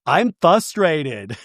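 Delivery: slow "frustrated" said as "fustrated"; missing first R. Retold or imitated. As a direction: drop the first R in "frustrated", drawn out. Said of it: "She says fustrated".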